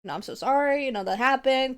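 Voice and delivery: lightly put-on service apology; retold customer service voice. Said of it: "doing the whole customer service thing".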